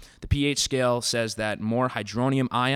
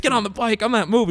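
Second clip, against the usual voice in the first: mock yell; 11 semitones higher, 7 dB louder than usual. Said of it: "he's like".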